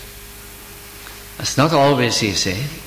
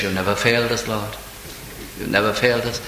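lower, subdued voice of someone praying; retold calm prayer; 4 semitones lower, 5 dB quieter, faster than usual. Preacher retelling the people's prayer to God, calm and low. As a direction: quote the prayer gently, dropping away on "Lord". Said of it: "And they're praying. He says".

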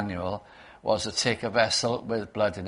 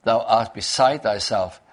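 a raised, rebuking call to Paul; loud rebuke; 5 dB louder than usual. Retold or imitated. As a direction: call Paul out as mad, loudly. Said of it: "with a, a loud voice".

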